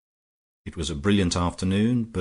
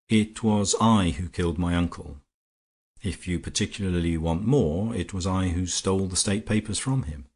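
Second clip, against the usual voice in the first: calm. Acted. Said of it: "Horne Fisher said calmly".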